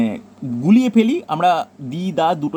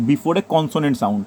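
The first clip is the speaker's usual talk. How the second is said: very slow, each word separate; slow dictation; 2 semitones lower, much slower than usual. Shown as a demonstration. Teacher dictating the consonant rule to students, very slow. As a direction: dictate it slowly for the notebook. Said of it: "note down করো".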